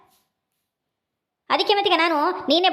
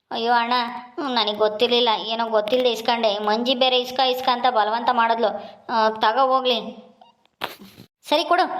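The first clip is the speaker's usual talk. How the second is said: lower, apologetic younger brother pleading his case; sheepish younger brother; 5 semitones lower than usual. Acted. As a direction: sound sorry and a little hurt after being scolded. Younger brother Sundra answers scolding.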